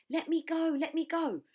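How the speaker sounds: high, loud protesting yell; yelling crocodile. A narrator's reading. Crocodile dangling from Trunky's trunk, loud high yell. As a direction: yell while dangling upside down. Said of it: "yelled the enormous crocodile".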